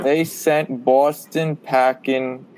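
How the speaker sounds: attempted Boston accent, lightly done; a half-hearted Boston accent. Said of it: "I was trying to do a Boston accent there".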